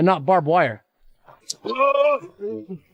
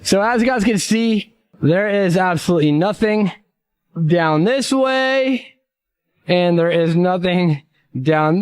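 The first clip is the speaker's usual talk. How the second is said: slow presenter voice; slower than usual. Acted. Slow presenter tour of landscape.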